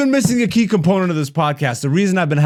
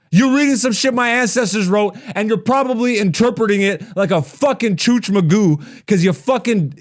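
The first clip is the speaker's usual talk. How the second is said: angry rant; 5 semitones higher than usual. Real, not acted. Furious rebuttal to commenter.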